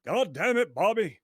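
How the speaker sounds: exasperated cartoon dad; put-on fatherly exasperation; Hank Hill. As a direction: scold the boy in a dad voice. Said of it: "not like that".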